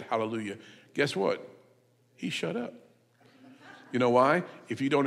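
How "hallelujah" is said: ordinary talk, nothing marked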